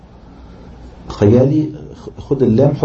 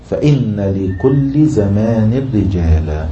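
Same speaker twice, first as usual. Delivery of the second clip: verse recitation; much slower than usual. Shown as a demonstration.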